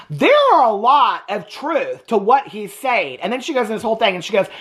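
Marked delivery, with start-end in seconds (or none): 0.1-3.2 mock attorney. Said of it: "the attorney's like".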